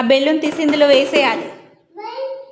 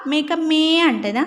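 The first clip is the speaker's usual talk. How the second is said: slow teaching voice; 3 semitones higher, slower than usual. Shown as a demonstration. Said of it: "మేక ఎట్లా అరుస్తుంది?".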